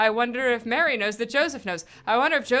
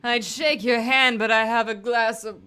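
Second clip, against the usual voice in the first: put-on drunk voice; 4 dB louder than usual. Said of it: "I'm still gonna do the drunk voice".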